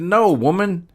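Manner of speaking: loud, very high hillbilly protest; mock exasperation. Storyteller correcting the lady about his gadget, mock exasperated. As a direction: cut her off loudly, hamming up the exasperation.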